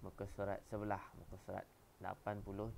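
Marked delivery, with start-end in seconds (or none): none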